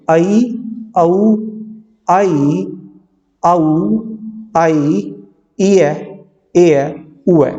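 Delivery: each diphthong slow and separate; diphthongs repeated. Shown as a demonstration. Teacher repeating diphthongs for the class, slow. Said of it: "दोबारा से एक बार repeat कर देता हूँ".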